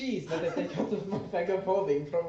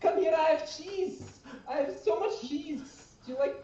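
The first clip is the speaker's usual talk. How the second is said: yelling in mouse; 8 semitones higher than usual. Acted. Cat calling the mice over with cheese, in a high mouse yell. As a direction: shout up high like a mouse luring its friends. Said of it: "I just wanna yell in mouse".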